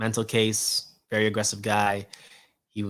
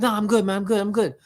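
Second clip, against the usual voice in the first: dismissive gym guy; 9 semitones higher, 4 dB louder than usual. Retold or imitated. Voicing gym guy declining.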